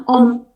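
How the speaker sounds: om tanpa H dan E; om, huruf depan dan akhir tidak dibaca; silent H. Shown as a demonstration. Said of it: "huruf H nggak dibaca". (om tanpa H)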